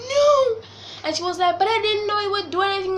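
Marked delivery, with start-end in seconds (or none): 0.1-0.6 anguished no. Retold or imitated. Reacting to mom's excuse. 1.6-3.0 high, fast, defensive mom voice; mom's excuse. Retold or imitated. Mimicking her mom defending herself, fast and high.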